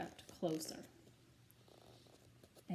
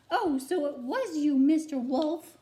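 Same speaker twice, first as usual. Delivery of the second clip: screeching hen; 8 semitones higher, 9 dB louder than usual. A narrator's reading. Mother hen screeches at the wolf at her door, high and loud. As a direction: shriek it out like a startled mother hen. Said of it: "the chicken screeched".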